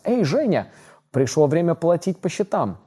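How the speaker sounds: high, loud mock mobster demand; mafia threat. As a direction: play a hammy Italian gangster collecting debt. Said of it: "я всегда могу ей воспользоваться".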